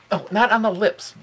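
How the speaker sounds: high surprised yelp at the dog; startled high squeal. Real, not acted. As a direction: squeak out a playful protest. Dog licks his face.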